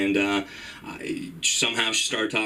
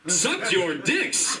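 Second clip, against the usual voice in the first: slow, high, incredulous echo; mock disbelief; 5 semitones higher, much slower than usual. To the two girls, a hammed-up incredulous echo. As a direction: repeat it as if stunned.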